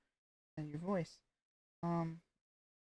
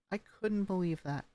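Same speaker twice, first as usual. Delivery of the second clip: disappointed falling. Shown as a demonstration. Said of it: "you show disappointment when you go down".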